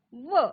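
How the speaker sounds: व as the sound of W, not its name; letter sound. Shown as a demonstration. Teacher sounds out the start of wipe, letter sound व. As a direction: sound out व alone, as in phonics. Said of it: "त्याचा आवाज होतो व".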